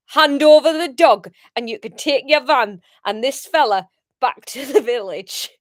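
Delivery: loud Geordie announcer, like the Big Brother narrator. Acted. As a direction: boom it out Geordie-style, Big Brother house. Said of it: "Maybe I think Big Brother, deep in the Big Brother house".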